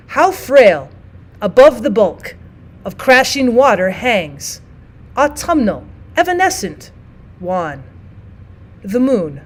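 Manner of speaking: slow recital, each line set apart by pauses; unhurried cinquain recital; poem reading. Shown as a demonstration. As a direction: let each line hang before the next. Reads cinquain example aloud.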